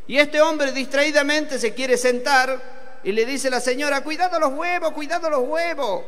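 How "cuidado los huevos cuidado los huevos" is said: raised-pitch lady's warning, lightly acted; mock warning. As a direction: warn someone quickly before they sit. Lady warns man about to sit.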